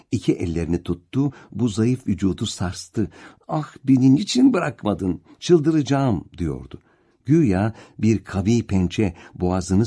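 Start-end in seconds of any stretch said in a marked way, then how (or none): 3.5-6.2 higher, strained cry of despair; anguished, near breaking; desperate anguish. Acted. Ahmet Cemil çaresiz öfkeyle. (çaresiz, çıldırmış gibi feryat)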